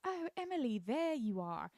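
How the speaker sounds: high, loud mock-relieved greeting; fussy greeting. Care home lady greeting Sarah, mock fussy.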